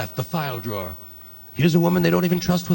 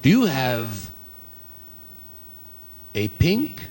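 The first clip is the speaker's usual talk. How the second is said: mock psychic customer; 3 semitones higher, slower than usual. Psychic customer describes item.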